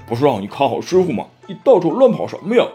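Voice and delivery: quick grumbling reproach; complaining Pigsy. Acted. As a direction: snap at your little brother for wandering off. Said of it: "猪八戒埋怨沙和尚".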